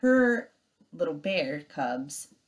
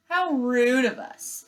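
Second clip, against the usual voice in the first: mock politeness; 7 semitones higher, 5 dB louder, slower than usual. Sister bear mock apology.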